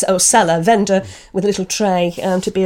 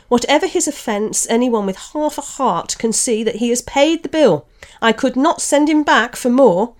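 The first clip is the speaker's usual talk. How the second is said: stubbornly; 3 semitones higher, 3 dB louder than usual. Acted. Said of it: "said the little grocer stubbornly".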